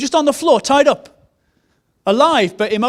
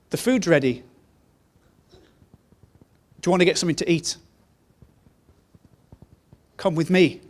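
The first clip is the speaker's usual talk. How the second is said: tender inviting God; 4 semitones lower, 4 dB quieter, faster than usual. Retold or imitated. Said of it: "and say to you".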